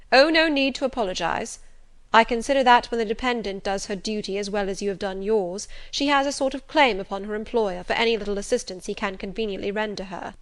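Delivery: a hint of assured authority; brisk Rochester. Voices Rochester in dialogue.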